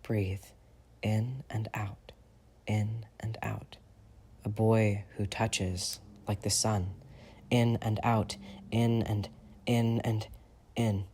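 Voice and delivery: slow unvoiced whisper, fading; breath slipping away as you count; breathless whisper. James alone, breathless whispered counting.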